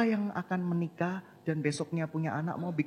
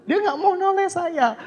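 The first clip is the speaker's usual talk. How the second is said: "Dia nggak mau noleh saya" much higher and louder; emphatic retelling; 12 semitones higher, 8 dB louder than usual. Real, not acted. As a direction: stress the repeat with exasperated emphasis.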